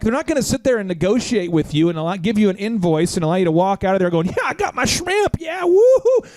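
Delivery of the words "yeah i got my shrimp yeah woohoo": mock celebration. Mock customer leaving with unpaid shrimp.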